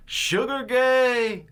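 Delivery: high, loud, long-drawn call; heckler's holler. Retold or imitated. Retelling a kid heckling a singer outside a club, hollered taunt. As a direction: yell it out slowly, stretching both words. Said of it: "nineteen-year-old kid was like".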